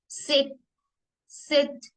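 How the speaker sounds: सिट starts with a sharp ts; German Z sound. Shown as a demonstration. Teacher demos German Z to students: सिट with ts. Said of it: "इसमें एस की sound आती है".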